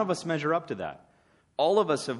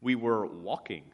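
dry deadpan reply, lower and softer; 4 semitones lower, 3 dB quieter, slower than usual. Retold or imitated. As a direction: flatly dodge the coworker's point. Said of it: "Pharisee looks back at him deadpan and says".

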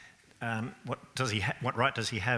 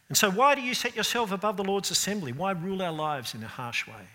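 high, raised challenge; mock objector quote; 6 semitones higher than usual. Preacher voicing Australians' challenge to God, mock indignant. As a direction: challenge God like a grumbling skeptic.

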